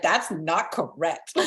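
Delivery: slow, giggling mock protest; half-laughing denial, drawn out; laughing through it. Retelling to friends her reaction to Heidi's advice, laughing.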